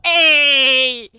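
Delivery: loud shouted hail across the bar; calling out. Acted. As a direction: yell to grab their attention. Calling out to two men.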